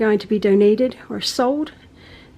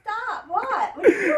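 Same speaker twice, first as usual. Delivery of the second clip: startled; 10 semitones higher, 4 dB quieter than usual. Real, not acted. Mom catching son zooming in.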